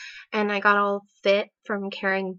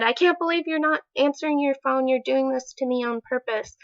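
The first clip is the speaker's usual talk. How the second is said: fast, higher-pitched retold accusation; imitated super mad; 5 semitones higher, faster than usual. Boyfriend's voicemail to girlfriend, imitated mad outburst. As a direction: accuse in a rush, acting out someone mad. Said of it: "back to being super mad".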